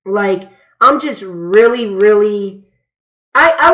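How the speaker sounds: repeating I, I; stumbling over the start; stuttering. Real, not acted. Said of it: "And sorry if I'm stuttering".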